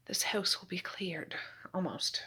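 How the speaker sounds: slow unvoiced whisper to herself. Real, not acted. Mom tidying the house whispers to herself, slow and voiceless. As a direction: breathe it out slowly, no voice.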